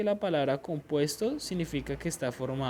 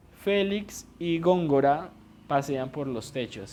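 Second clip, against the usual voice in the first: slow example sentence; 6 dB louder than usual. Shown as a demonstration. Teacher reading an example sentence to her students, slow and clear. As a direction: read the example slowly and clearly, a bit louder. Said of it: "un ejemplo para eso sería".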